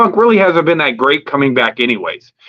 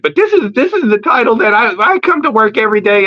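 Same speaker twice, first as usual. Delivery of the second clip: higher mock wrestler promo voice; Seth Rollins promo voice; 7 semitones higher than usual. Seth Rollins cuts a promo about his title, mock higher voice.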